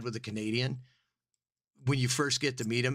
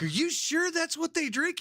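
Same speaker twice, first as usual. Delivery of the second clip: retold quote. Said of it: "I was like".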